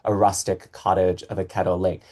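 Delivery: "rustic cottage of a kettle lake" on four clear beats; four strong stresses. Shown as a demonstration. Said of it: "Those four strong stresses".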